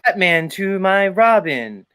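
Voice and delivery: mock robotic earnest questions; Jason Lindgren impression. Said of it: "why do I sound like I am a fucking android".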